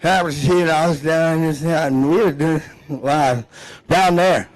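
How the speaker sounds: put-on drunken, hard-to-understand mumble; mock a man twenty beers in; Boomhauer. Buddy after twenty beers telling a story, garbled drunk impression. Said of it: "can't understand him when he's had twenty beers".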